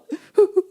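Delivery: high-pitched mock sobs; quick fake weeping noise; imitated sobbing. Teacher showing the woman weeping in prayer, mock sobs. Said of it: "울면서 기도하니까".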